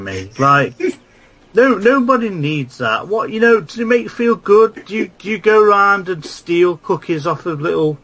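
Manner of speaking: high-pitched, affronted rebuke; exasperated comic tirade; indignant rant. Acted. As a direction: tell off a rude letter writer, voice climbing. Mock-offended rant at email writer.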